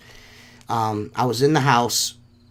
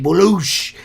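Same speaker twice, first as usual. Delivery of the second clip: big splash noise made by mouth; imitated splash; 2 semitones higher, 3 dB louder than usual. Retelling a jump into the pool, imitated splash. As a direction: mimic plunging into water.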